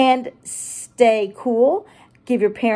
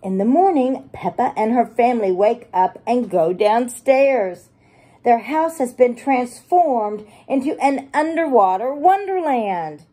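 put-on bright read-aloud for kids; cheerful picture-book narration; storybook reading. A narrator's reading. Reads picture book to children.

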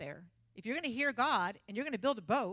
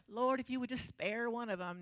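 mock pleading; 4 dB quieter than usual. Mock pious prayer, contrasted with Noah.

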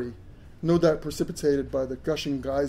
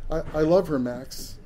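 shivering voice, teeth chattering; forced out through chattering teeth. Acted. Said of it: "through chattering teeth".

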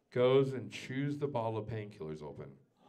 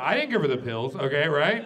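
louder aside; plain; 4 semitones higher, 10 dB louder than usual. Acted. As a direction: toss the confession out quickly. Repeated confession line.

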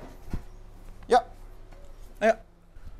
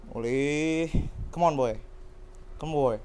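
coaxing a dog; 7 semitones lower, 4 dB quieter than usual. Real, not acted.

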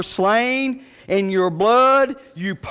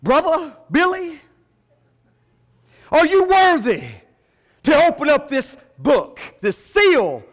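angel; 5 semitones higher than usual. Acted. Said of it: "He went to Doctor Billy Graham and he said".

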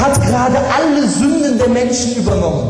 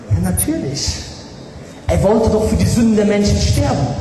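mock scholar. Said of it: "Wisst ihr, was sie sagen?".

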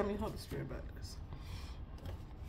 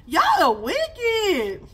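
slow scold; 7 semitones higher, 4 dB louder, much slower than usual. Real, not acted. Scolding the spirits.

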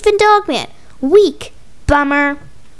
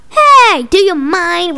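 indignant shout; 2 semitones higher, 5 dB louder, slower than usual. Acted. Kid interrupted mid-game by a monster, indignant yell.

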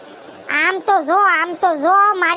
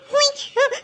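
put-on higher, girlish voice of the scolded young bride; young bride defending herself, higher voice; young bride's voice; 6 semitones higher than usual. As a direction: answer back like a young bride caught idle. Young daughter-in-law answering back.

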